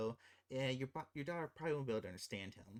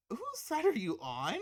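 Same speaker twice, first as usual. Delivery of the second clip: exasperated; 10 semitones higher, 7 dB louder than usual. Real, not acted. Exasperated at the film's husband.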